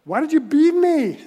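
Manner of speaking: a hint of a wounded donkey; donkey's complaint. Donkey asking its master why he beat her, lightly voiced. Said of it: "Donkey said".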